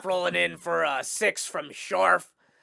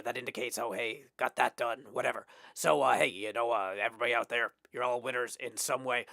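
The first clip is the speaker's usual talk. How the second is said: cowboy voice; 5 semitones lower than usual. Pretend. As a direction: deliver a victory speech as a laid-back cowboy. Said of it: "sound like a cowboy".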